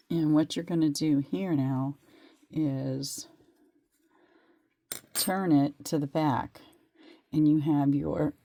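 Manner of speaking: hoarse sore throat voice; talking through a sore throat. Real, not acted. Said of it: "I'm still battling a sore throat".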